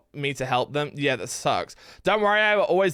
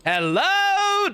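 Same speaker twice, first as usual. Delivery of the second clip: put-on Bristol accent; 14 semitones higher than usual. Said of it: "I can feel my accent".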